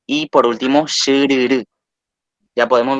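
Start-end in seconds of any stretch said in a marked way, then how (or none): 0.9-1.6 "shururu" with force on the last U; stress on final vowel. Shown as a demonstration. Teacher showing tonic accent, last U stressed in "shururu". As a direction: lean on the closing U of "shururu". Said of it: "la última vocal se pronuncia con mayor fuerza".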